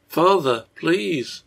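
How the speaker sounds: put-on little girl's gentle plea; soft, gentle. A narrator's reading. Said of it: "A soft and gentle voice called".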